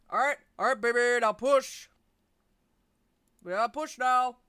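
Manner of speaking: lightly voiced coach urging push; delivery coach voice. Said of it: "Lorne calls in the delivery room".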